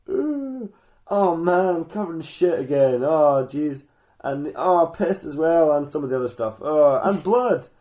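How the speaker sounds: mock groaning dismay, drawn out; acted disgust. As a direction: wake up appalled at the mess. Waking up covered in filth.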